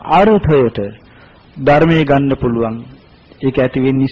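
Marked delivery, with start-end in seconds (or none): none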